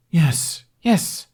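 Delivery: eager yes. Acted. Aide eagerly agreeing to cut Hiccup's hair, excited. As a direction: jump at the chance.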